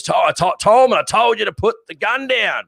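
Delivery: retold screaming. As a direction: bark it like a corporal, held back a little. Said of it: "he starts screaming".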